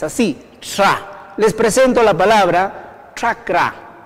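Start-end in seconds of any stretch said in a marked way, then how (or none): 0.6-1.3 slow isolated 'tra', tongue near palate and teeth; teacher modelling the 'tra' sound; palatal sound demo. Shown as a demonstration. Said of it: "que se pronuncia cerca del paladar y los dientes". 3.1-4.0 chakra begun with a 'tr' sound, slowly; careful chakra, tongue near the palate; Quechua pronunciation. Shown as a demonstration. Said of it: "que se pronuncia cerca del paladar y los dientes".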